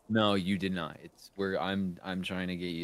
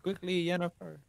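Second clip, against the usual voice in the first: character voice; 10 semitones higher than usual. Acted. Voicing a character line.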